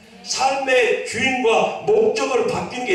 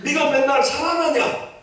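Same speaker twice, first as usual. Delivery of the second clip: put-on drawn-out Jeolla-accented rhetorical question; chiding question in Jeolla satoori; Jeolla dialect; 2 semitones higher, slower than usual. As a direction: answer back in a Jeolla dialect. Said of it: "전라도 사투리로 응답하신 거예요".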